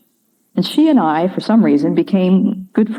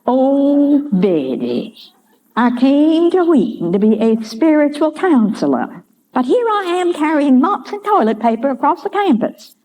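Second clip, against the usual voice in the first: put-on Georgia accent; 9 semitones higher than usual. House mother confiding in young Betty, high Georgia accent. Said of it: "she could say it with that Georgia accent".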